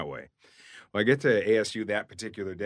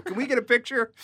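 excited fan; 3 dB louder than usual. Retold or imitated. Fans ask for photo.

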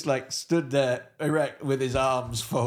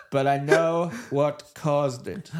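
slow, deliberate ominous reveal; ominous Hitler; 3 dB louder, slower than usual. Pretend. Hitler hinting at the cause of defeat, slow ominous voice. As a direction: draw the words out like a dark secret. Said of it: "it's like".

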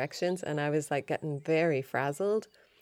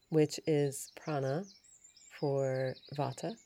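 slow, drawn-out words; slower than usual. Real, not acted. Explaining the doshas to listeners, slowed right down. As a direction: ease off the pace on each word. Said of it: "I sort of slowed down".

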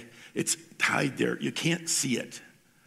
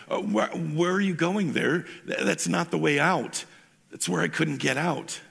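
higher, alarmed "where are you going"; a slightly raised, worried boy's voice; 5 semitones higher than usual. Acted. Curdy alarmed calling.

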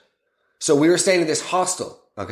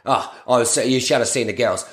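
lower, lightly voiced lad's sales pitch; a hint of a sleazy holiday rep; salesman Chezza; 3 semitones lower than usual. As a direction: pitch the boat party like a dodgy rep. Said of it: "here's the salesman now".

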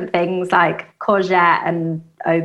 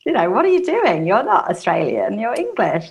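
scolding mum; 4 semitones higher than usual. Retold or imitated. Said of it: "she'd be like".

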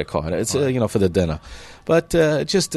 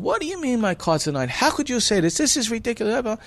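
mock outrage; 10 semitones higher than usual. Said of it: "jumped up screaming".

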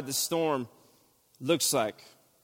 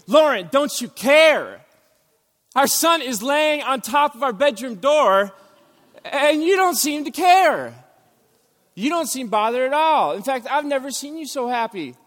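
angry shout; 8 semitones higher, 6 dB louder than usual. Retold or imitated. Husband in nightmare yelling at his sleeping wife, angry. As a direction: shout at her for not caring.

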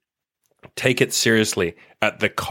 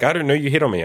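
imitating a girl; 6 semitones higher, faster than usual. Girl's reply acted in dialogue.

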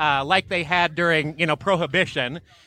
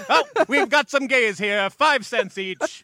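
high barker call, stretched out; loud carnival barker; 5 semitones higher than usual. Pretend. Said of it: "it sounds like a carnival barker".

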